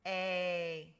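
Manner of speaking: "A" held out as ay; long A sound. Shown as a demonstration. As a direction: draw out "A" for learners. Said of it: "A I makes the sound".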